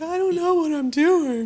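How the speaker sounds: flustered panic. Retold or imitated. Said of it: "I'm like".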